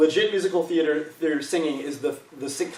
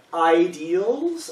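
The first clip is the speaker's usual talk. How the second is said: IDEALS drawn out and raised, as if in quotes; in air quotes; 3 semitones higher than usual. Real, not acted. Teacher qualifying the ideals of vibrato, IDEALS in audible quotes. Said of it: "I put that in quotes".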